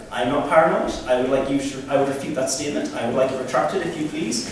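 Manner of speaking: formal Geordie retort, precisely worded; mock gravitas. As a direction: deliver it like a stiff formal objection. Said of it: "speak very slowly and very phonetically".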